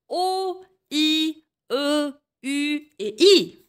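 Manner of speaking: chaque voyelle détachée, bien articulée. Shown as a demonstration. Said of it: "Je répète". (voyelles prononcées lentement et nettement)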